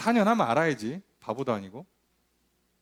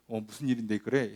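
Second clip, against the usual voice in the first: sympathetic; 7 semitones lower, 5 dB quieter than usual. Retold or imitated. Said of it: "나도 같이 공감하면서".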